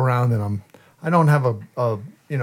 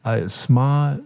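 slow, exaggerated mantra, louder on kind; mocking affirmation; 2 semitones higher, 6 dB louder, slower than usual. Mocking a young coworker with a slow, hammed-up mantra. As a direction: sarcastically recite self-affirmations like a lesson. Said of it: "I was making fun of him".

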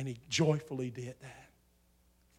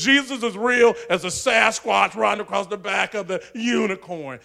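a loud, higher mock of a sneering professor; 5 semitones higher, 9 dB louder than usual. Preacher imitating a professor mocking him in class, louder and higher. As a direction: play the jeering professor. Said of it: "the professor was mocking me".

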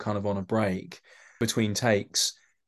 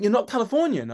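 imitating the AD; 12 semitones higher, 3 dB louder than usual. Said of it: "I think she was from California".

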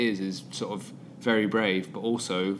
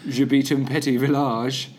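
put-on schoolboy French accent; 3 semitones higher, 4 dB louder than usual. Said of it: "So it'd be".

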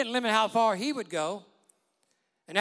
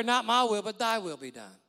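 fervent declaration. Acted. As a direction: proclaim it boldly. Congregation declaring it.

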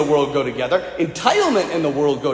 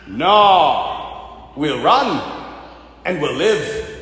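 lower, grudging Scottish soldier; old soldier; 4 semitones lower, much slower than usual. Retold or imitated. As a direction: refuse as a weary old soldier. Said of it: "one of the old soldiers says".

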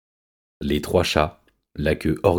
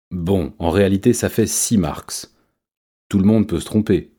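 timid chimp; 3 semitones higher than usual. A narrator's reading. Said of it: "reprit timidement Mathias".

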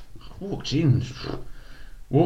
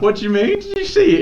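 laughing disbelief; 14 semitones higher, 6 dB louder than usual. Retold or imitated. Retelling shocked question to dad.

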